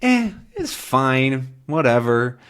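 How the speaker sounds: slow, shrugging it's fine; unimpressed, drawn-out it's fine; dismissive fine. Shown as a demonstration. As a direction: show you don't care much. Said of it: "Fine is a word that we use for".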